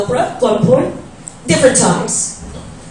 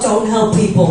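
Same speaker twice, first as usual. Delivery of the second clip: father's voice; 5 semitones lower, 3 dB quieter than usual. Retold or imitated. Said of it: "my father's saying in my head".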